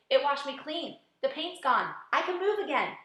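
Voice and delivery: bursting with delight; excited. Acted. Freed centipede cheering to the others, excited.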